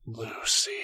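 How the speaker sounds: hoarse vacant. A narrator's reading. Spider girl echoing her own name, hoarse and vacant. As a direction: say it hollow, like nobody is inside. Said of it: "her voice hoarse and vacant".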